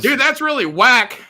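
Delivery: Dude and whack thrown out high and loud; slangy college voice. Retold or imitated. College friend mocking, joking slang voice. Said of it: "I used to talk a little black".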